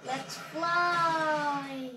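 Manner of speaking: drawn-out loud cry of take-off; excited call. Real, not acted. Gamer launching the mech into flight, excited call. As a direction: stretch it out in a loud, gleeful whoop.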